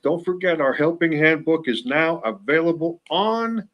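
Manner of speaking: host calling out to the back of the room. Shown as a demonstration. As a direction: call it out to the back row. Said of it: "for those of you way in the back".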